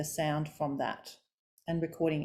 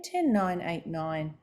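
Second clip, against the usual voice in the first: coming down; slower than usual. Shown as a demonstration. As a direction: drop the pitch number by number. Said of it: "coming down".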